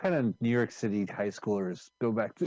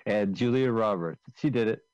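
excited impression; 3 dB louder than usual. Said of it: "here's my impression".

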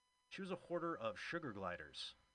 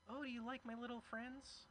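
mock date voice; 12 semitones higher, 5 dB quieter than usual. Date voiced in retold story.

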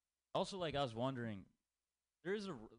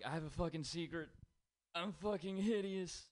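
mock creepy classmate; creepy kid confession; 6 semitones higher than usual. Quoting a weird classmate.

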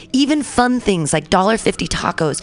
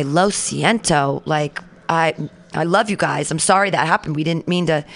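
apologetic; 4 semitones lower than usual. Retold or imitated. Retold apology to the lady.

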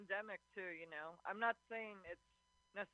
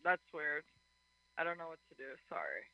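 choppy phone audio dropping out; caller's voice cutting in and out; phone breaking up; 4 semitones lower, 4 dB louder than usual. Real, not acted. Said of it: "voice is going in and out".

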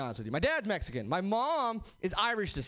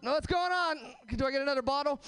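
mock toddler; faster than usual. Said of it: "like a three-year-old".

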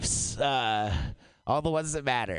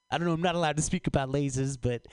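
quick, hesitant botched celebrity impression; fast, fumbled impersonation attempt; accidental Woody Allen; 3 semitones lower, faster than usual. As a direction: rush it out in a poorly practised accent. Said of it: "that was Woody Allen".

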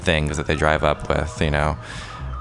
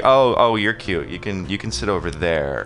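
mock condescension; 2 semitones higher than usual. Major party talking down to a minor one, mock condescension. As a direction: humor them like a small child, then dismiss.

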